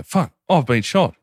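hammed-up war movie shock; shocked soldier. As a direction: gasp it out, suddenly noticing the wound. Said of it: "And they go".

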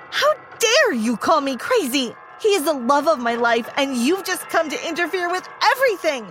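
put-on furious girl yelling at the pregnant fiancée; screamed. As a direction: yell it as a jealous threat. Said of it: "I screamed".

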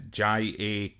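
ordinary talk

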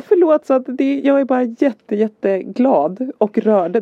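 retold weepy apology, starting high and settling; tearful joy. Mother apologises to son for crying, tearfully happy. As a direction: reassure a child through happy tears, slowing down. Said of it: "Därför gråter mamma".

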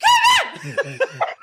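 screaming falsetto Kevin. Shown as a demonstration. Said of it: "I have to do falsetto".

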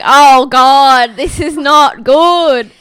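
loud, drawn-out groan of regret; mock dismay. Podcaster recalling thoughts during parking chat, mock dismay. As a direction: wail it slowly with exaggerated dread.

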